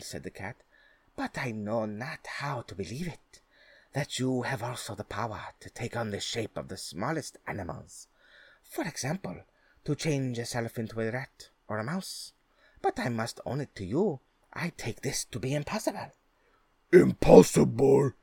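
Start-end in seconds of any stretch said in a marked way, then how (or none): 1.1-16.1 sly cat voice. Acted. Cat goads the ogre. 16.9-18.1 loud, outraged ogre cry; dim slow booming giant. Acted. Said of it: "cried the ogre".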